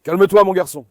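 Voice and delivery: loud, steady commands to settle a dog; firm calming. Real, not acted. Owner firmly settling his agitated dog with loud commands.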